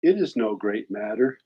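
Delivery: a heartfelt reading of a poem written for a friend who died. Acted. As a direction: read it gently, letting lines breathe. Reading own poem aloud.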